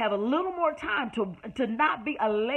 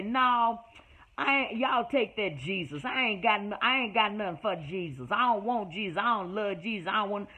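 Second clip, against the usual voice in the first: dismissive refuser; 4 semitones lower than usual. Retold or imitated. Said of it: "I'm talk like the country girl that I am".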